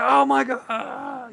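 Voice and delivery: a squealing, drawn-out victory cry; ecstatic relief. Retold or imitated. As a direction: let the disbelief and joy spill over. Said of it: "losing my mind".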